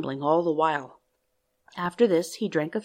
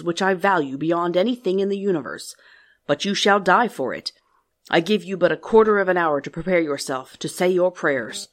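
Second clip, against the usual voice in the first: grotesque monster voice; 6 dB louder than usual. Acted. Beast threatens the merchant.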